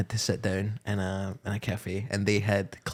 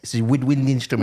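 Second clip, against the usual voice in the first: New Zealand vowels, "woodwind" like "widwind"; Kiwi accent; 4 semitones higher, 6 dB louder than usual. Real, not acted. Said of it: "struggling to say the word wood in a Kiwi accent".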